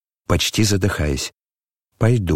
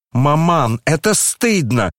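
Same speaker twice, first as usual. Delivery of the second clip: loud cry; 6 semitones higher, slower than usual. Acted. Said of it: "громко вскричала Аглая".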